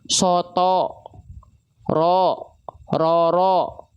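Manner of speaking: "Soto, ro, roro" with lips pushed out into a full O; over-round "Soto, ro, roro" through pouted lips; wrong pouted thickness. Shown as a demonstration. Teacher shows students what to avoid, pouted O. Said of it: "Ah, nggak begitu".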